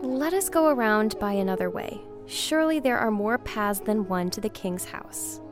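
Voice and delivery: afraid. A narrator's reading. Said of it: "began to grow afraid".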